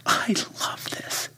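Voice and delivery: moved son. Retold or imitated. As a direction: let it catch with emotion. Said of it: "he said".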